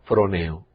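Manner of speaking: froneo said as fro-NE-o, accent on the E; stress on the E. Shown as a demonstration. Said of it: "con tilde acentuada en la E".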